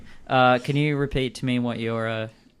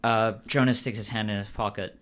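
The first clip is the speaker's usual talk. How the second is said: ordinary talk, nothing marked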